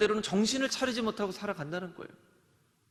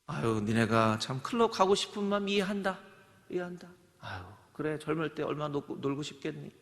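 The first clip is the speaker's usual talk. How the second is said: indulgent; 4 semitones lower than usual. Pretend. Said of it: "이렇게 얘기를 해야 되겠습니까".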